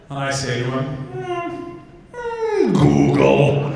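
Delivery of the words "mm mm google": mock-ponder with long hums before answering; careful deliberation. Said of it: "I think it over carefully".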